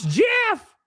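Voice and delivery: high fangirl shriek of a name; excited squeal. Real, not acted. Streamer greeting a friend in chat with an excited squeal. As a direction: squeal the name like a starstruck fan.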